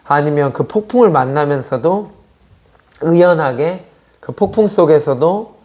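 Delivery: normal talking voice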